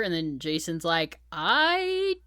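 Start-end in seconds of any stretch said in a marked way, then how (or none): 1.3-2.2 very slow, stretched words; imitating a blank, lost amnesiac; drawn-out cluelessness. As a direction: draw each word right out, baffled. Acting out clueless Jason, words stretched.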